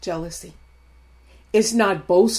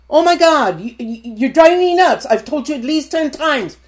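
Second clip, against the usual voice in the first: mock exasperation; 5 semitones higher, 4 dB louder than usual. Exasperated spouse acted out.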